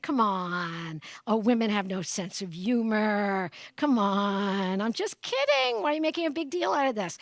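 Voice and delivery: mock a patronizing man laughing off a complaint; mocking condescending man.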